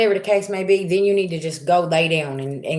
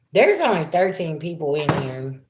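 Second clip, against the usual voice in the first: ordinary talk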